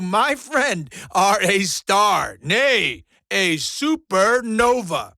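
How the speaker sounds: swelling showman oratory; grand proclamation. Acted. Impresario crowns his new star before viewers, grandiose.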